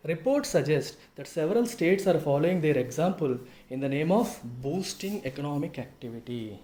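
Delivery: slow, measured reading from a text; deliberate classroom read-out; article read-aloud. Real, not acted. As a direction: read the sentence out slowly for students.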